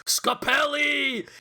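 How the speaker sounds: drawn-out high shout of a name; angry movie yell. Acted. Imitating a film plumber cursing his rival, drawn-out mock yell. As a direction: holler it slowly at a rival. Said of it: "Bob Hoskins is like".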